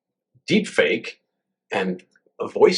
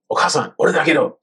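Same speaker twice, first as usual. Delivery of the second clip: lightly higher, casual son voice in Japanese; scam caller in Japanese; 4 semitones higher than usual. Retold or imitated. 息子を装う詐欺電話の声. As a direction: play the fake son calling his mother. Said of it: "they call up and say".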